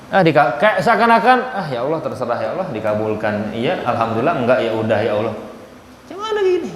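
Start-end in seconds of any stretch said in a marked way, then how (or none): 1.5-5.3 soft, low, shrugging mumble of a prayer; lazy careless prayer. Retold or imitated. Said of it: "Enggak gitu". 5.3-6.7 mocking question. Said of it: "Enggak gitu".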